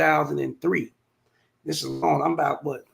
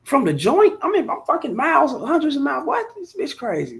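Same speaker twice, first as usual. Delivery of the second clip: stunned outrage; 10 semitones higher than usual. Retold or imitated. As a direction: react like the accusation is insane. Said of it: "I'm like".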